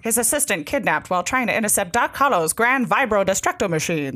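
fast, punchy announcer read; old newsreel. Retold or imitated. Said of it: "like, an old newsreel kind of a voice".

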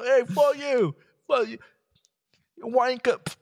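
high, belligerent mock British accent; thick British accent. Drunk passenger cursing out cabin crew, mock thick British accent. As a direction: swear in a hammed-up British accent. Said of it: "like, a thick accent".

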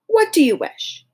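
high, odd-timbred monkey king voice; a bowing creature asking her will. Acted. Monkey King asks Dorothy her wish, high odd voice. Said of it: "said the Monkey King".

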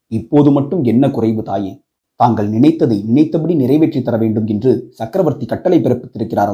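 deep-voiced Saivite priest addressing the queen; temple priest voice.

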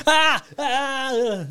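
high, put-on cries of pain; hammed-up agony yelps; mock pain scream. Morty consumed by portal bubbles, mock screaming in pain. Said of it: "screaming in pain".

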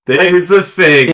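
slow, drawn-out mimicry of a friend's catchphrase; slow mocking echo; mimicking co-host. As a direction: stretch it out, teasing.

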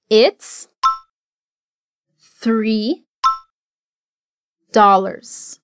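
three with the tongue between the teeth; three, TH pushed out through the teeth; th sound in three. Shown as a demonstration. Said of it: "colocar a língua entre os dentes ... som de T H".

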